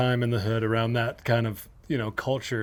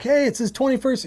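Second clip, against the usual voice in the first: higher-pitched, upbeat hey to a bartender; eager retold plea; 11 semitones higher, 3 dB louder than usual. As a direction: pitch it high, announcing a friend's birthday. Acted birthday pitch to the bartender.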